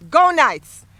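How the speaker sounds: loud, high crowd cheer; proud team-spirit yell; rallying shout. Real, not acted. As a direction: shout it with pride to start a chant. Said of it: "please shout with me".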